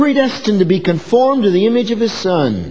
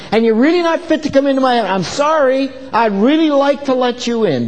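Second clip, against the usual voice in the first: God rejecting sinner; 6 semitones higher than usual. Retold or imitated. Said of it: "you're gonna hear Him say".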